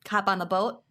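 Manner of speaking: Minnesotan vowels, long round O in "boat"; Minnesotan accent. Shown as a demonstration. Host demonstrating boat in a phrase, Minnesotan accent. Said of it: "can't say without a Minnesotan accent".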